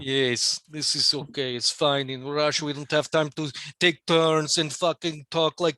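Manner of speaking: put-on Russian comrade voice. One comrade explaining why Russians talk over each other, mock Russian. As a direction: play a griping Soviet citizen.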